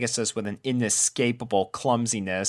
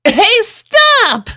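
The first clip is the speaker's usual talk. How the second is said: chuckling; 10 dB louder than usual. A narrator's reading. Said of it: "chuckled Apple Bloom".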